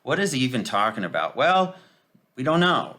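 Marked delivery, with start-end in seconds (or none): 1.4-2.9 exasperated. Real, not acted. Mocking bafflement.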